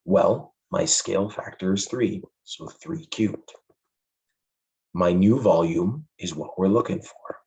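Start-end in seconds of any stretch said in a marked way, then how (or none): 2.4-7.4 hoarse, fading voice; losing voice. Real, not acted. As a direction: voice giving out mid-lesson. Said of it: "Sorry, I'm losing my voice".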